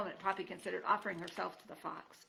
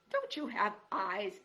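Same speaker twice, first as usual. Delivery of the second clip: slow, crotchety jab; a hint of a screeching porcupine; mild screech; 4 dB louder, slower than usual. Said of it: "Aerith screeched".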